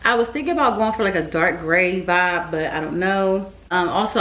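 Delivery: slightly slurred speech with retainers in; wearing a retainer. Real, not acted. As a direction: talk around a retainer in the mouth. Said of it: "if I sound a little, that's 'cause I, um, got my retainers in".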